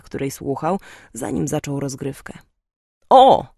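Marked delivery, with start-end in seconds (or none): 3.1-3.5 high, loud exclamation of joy; delighted. A narrator's reading. Father recognising a favourite band, delighted. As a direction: burst out with happy recognition. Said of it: "ucieszył się ojciec".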